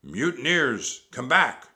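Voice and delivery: outraged drawn-out yell; pirate captain shout. A narrator's reading. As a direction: holler after your deserting crew. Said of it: "shouted Captain Bones".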